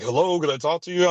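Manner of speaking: high, prim mock politeness; mocking the landlady. Landlady interrupting his phone call, in high mock-polite voice. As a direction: put on her fake-polite tone. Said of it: "she was staring at me like".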